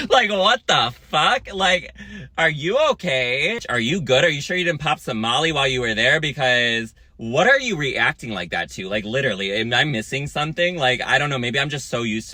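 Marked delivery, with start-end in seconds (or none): 0.1-10.8 incredulous. Retold or imitated. Imitating the woman's crazy face.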